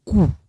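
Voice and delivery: "cool" with the oo of Lingala; Lingala sound. Shown as a demonstration. Teacher showing learners how it sounds in Lingala, "cool" with oo. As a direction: say "cool" with a pure oo. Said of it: "in Lingala".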